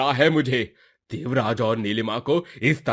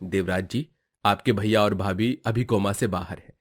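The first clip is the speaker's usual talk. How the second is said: calm reassurance; 4 semitones lower than usual. Acted. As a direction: settle them gently as the doctor. Doctor reassures the family. (Doctor की शांत धीमी आवाज़)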